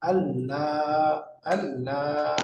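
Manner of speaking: আল্লাহ very slow, doubled l, no n; slow merged lam. Shown as a demonstration. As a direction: draw out আল্লাহ to show the merge. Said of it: "পড়তে হবে". (খুব ধীরে আল্লাহ)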